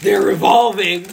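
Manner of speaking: slow, loud dramatic exclamation; mock awe. Real, not acted. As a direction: proclaim it like a documentary twist.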